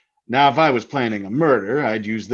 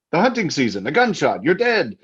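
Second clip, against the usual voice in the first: relishing menace; 5 semitones higher than usual. Acted. Husband relishes describing the murder.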